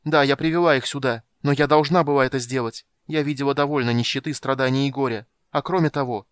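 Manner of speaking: high, loud defiant cry; girl defying the old mage, loud and desperate; desperate defiance. A narrator's reading. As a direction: shout back in desperate defiance. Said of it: "с отчаянным вызовом крикнула Сильвара".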